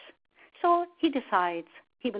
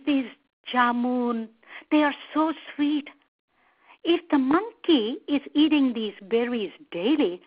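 higher-pitched wife craving a treat; lightly voiced crocodile wife, coaxing and savouring; greedy crocodile wife; 4 semitones higher than usual. Wife craves the sweet monkey's heart, greedily coaxing.

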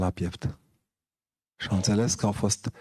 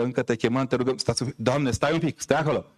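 lightly voiced priest calling a vote, a bit higher; mock priest; 4 semitones higher than usual. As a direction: parody a priest holding a vote. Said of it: "asta ar mai lipsi să zică". (preot parodiat, ușor mai sus)

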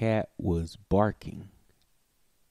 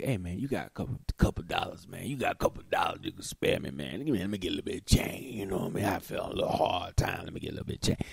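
polite panhandler; 2 semitones lower, 3 dB quieter, much faster than usual. Retold or imitated. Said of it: "most people in America".

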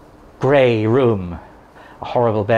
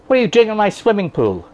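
indignant pool owner; 5 semitones higher than usual. Pretend.

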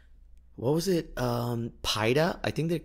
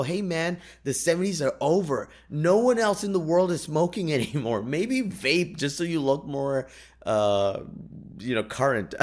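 put-on higher, teasing scold to young smokers; mock lecture to smokers; 6 semitones higher than usual. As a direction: tease them like a know-it-all. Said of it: "I wanted to run up to them and go".

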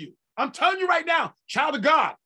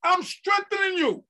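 voice of God; 7 semitones higher than usual. Acted. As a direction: proclaim as God himself. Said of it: "God says".

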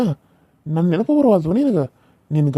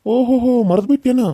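mocking taunt; 7 semitones higher than usual. Taunting the woman he wronged.

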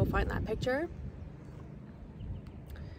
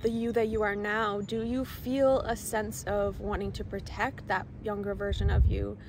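guided meditation; 3 dB quieter than usual. Acted. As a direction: lead them gently into the visualization. Leads inner child visualization.

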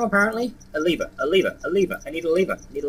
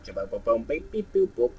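silly machine noises; 3 semitones lower than usual. Real, not acted. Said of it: "I'm making noises!".

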